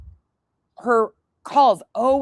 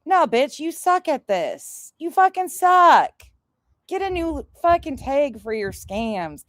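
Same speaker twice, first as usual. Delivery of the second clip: real angry rant; 6 semitones higher than usual. Real, not acted. Ranting at the scammer.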